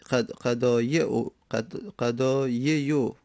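قضایع said slowly, syllable by syllable, as a model; slow sounding out. Shown as a demonstration. Teacher to students, sounding out قضایع slowly. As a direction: spell out قضایع slowly for the class. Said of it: "قضایی،".

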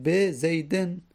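زیدن ending in "-din"; kasra ending. Shown as a demonstration. Teacher contrasting an ordinary noun, kasra ending. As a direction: sound a short kasra and n at the end of زیدن. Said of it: "کسره نمیدیم".

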